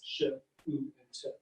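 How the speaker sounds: "sh, oo, and t" as three isolated sounds; separate phonemes. Shown as a demonstration. Lecturer counting shoot's three phonemes, sounds said apart. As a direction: slowly sound out "sh, oo, and t". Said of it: "produce only three phonemes".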